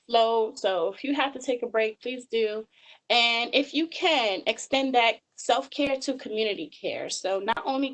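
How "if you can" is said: "if you can" said slowly, falling on "can"; stressed phrase. Real, not acted. Speaker urging listeners toward community care, stressing "if you can". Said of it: "I stress the word".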